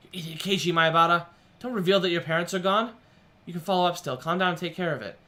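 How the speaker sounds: loud, angry rebuke of himself; self-scolding. Acted. Boy berates himself for giving away his parents are gone, angry shout. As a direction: chew yourself out for the blunder.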